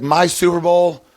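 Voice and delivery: mock giddy fan; imitating excitement. Columnist imitated getting his first Super Bowl, excited. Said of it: "He was so excited".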